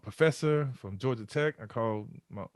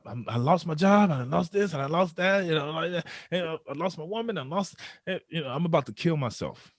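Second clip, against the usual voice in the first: retold lamenting; 4 semitones higher than usual. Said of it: "I just started lamenting".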